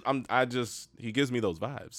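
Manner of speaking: normal talking voice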